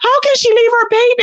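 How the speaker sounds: put-on high, wailing plea over the baby; a touch of hammed-up tears; mock tearful outrage. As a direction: imitate a crying panel member. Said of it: "they were all crying on the panel".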